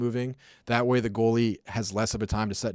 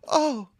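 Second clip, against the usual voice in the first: imitated high, feeble "oh"; squeaky little helpless yelp, mimicked; weakest little "oh". Imitating the shaken linebacker falling over, weak high "oh". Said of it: "gives this weakest little".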